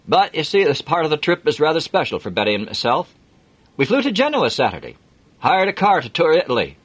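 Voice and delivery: hearty Yorkshire driver; broad Yorkshire accent. Acted. Jim offering Adam a lift, broad Yorkshire accent. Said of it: "broad Yorkshire accent".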